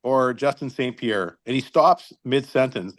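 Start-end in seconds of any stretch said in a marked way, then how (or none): 0.0-1.4 slow, measured, innocent question; calm, teasing question to the coach. Retold or imitated. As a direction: ask it slowly and sweetly. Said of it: "very calm".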